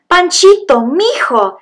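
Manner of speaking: Panchito called out high and loud, overjoyed; joyful father's call. Acted. Papa finds his lost son at last, overjoyed call. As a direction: cry out his name with relief.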